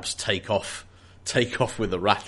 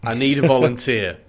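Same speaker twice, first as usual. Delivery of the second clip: mock briefing, building louder; rally a wary work crew; foreman addressing crew; 6 dB louder than usual. Foreman asking his work group for a volunteer, building louder.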